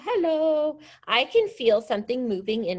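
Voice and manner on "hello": demo hello. Shown as a demonstration. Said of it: "say something and talk about what we feel".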